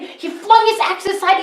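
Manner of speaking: usual speaking voice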